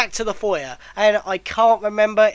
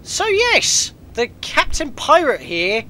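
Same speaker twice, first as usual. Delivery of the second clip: throaty, phlegm-caught voice; phlegm in throat; 7 semitones higher, 4 dB louder, slower than usual. Real, not acted. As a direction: talk through a bit of phlegm. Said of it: "I had a bit of phlegm in my throat".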